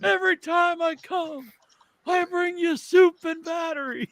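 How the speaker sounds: put-on high, slow old man voice; the older brother visiting Fred, puzzled and slow. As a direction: drag it out like a creaky old man.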